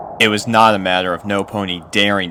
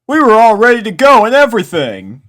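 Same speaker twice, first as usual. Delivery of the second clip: put-on much higher, louder, huffy kid; indignant colt Snails; 14 dB louder, faster than usual. A narrator's reading. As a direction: back up your friend loudly. Snails complains.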